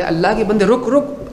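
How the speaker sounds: rising call to stop. Pretend. Man on a bicycle shouting after the traveller, calling out. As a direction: call after him to halt.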